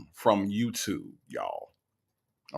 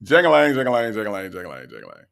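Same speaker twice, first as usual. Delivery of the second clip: mock Jangalang; 2 semitones lower, 4 dB louder, faster than usual. Host repeating the joke about Dre, descending mock chant. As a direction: repeat it mockingly, winding down in pitch. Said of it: "Dre sounded like Jangalang".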